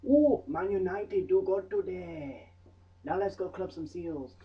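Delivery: silly put-on voice. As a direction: ham up a chirpy local. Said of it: "little Inuit sat there going".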